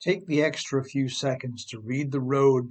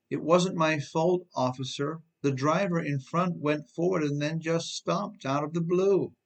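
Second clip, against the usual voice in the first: mock pleading; 3 semitones higher than usual.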